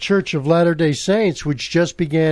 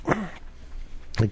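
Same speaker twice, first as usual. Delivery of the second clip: stuffy voice right after blowing nose; slow, blocked-nose speech; 3 semitones higher, 11 dB quieter than usual. Real, not acted. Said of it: "excuse me while I blow my nose".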